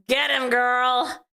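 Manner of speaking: slow, tearful-laughing cheer. Real, not acted. Cheering the girl's comeback over him, laughing. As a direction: cheer her on through a laugh.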